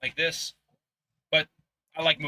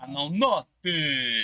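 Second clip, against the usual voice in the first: put-on Italian accent; much slower than usual. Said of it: "in the Italian voice".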